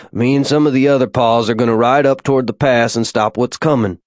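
a hint of rural American father, reassuring; lightly played folksy dad giving instructions; lightly voiced frontier Pa. Father takes leave of children.

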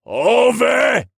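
very high, loud scream; piercingly high, drawn-out summons; yell. A narrator's reading. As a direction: yell it out on a full breath. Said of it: "took a deep breath to yell".

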